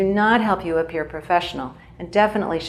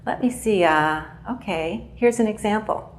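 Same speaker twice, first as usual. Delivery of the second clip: filler between sentences; 3 semitones higher than usual. Shown as a demonstration. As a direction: hesitate briefly before giving the example. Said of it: "can be okay in between sentences".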